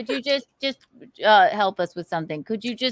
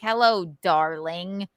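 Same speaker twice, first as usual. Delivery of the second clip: slow, stilted "Hello, darling"; forced; 4 semitones lower, slower than usual. Shown as a demonstration. Woman demonstrates the wrong greeting, forced and slow. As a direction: say it stiffly, as if forced. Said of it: "you can't be forced".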